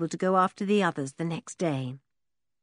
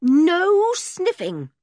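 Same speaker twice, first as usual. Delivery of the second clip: very slow, louder firm command; 9 semitones higher, 7 dB louder, much slower than usual. A narrator's reading. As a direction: lay down the law, trying not to laugh. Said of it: "commanded George".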